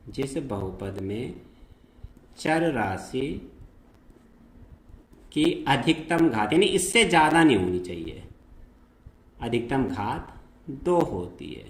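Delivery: slow, word by word, with pauses; slow dictation. Shown as a demonstration. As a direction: repeat it slowly so they can write. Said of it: "द्विघाती बहुपद जिस बहुपद में".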